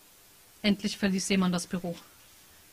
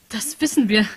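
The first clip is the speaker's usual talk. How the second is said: said aloud; 3 semitones higher, 6 dB louder than usual. Acted. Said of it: "sagte Patricia laut".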